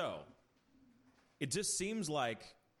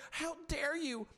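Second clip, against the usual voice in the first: mock soap drama line; 13 semitones higher, slower than usual. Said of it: "another person saying".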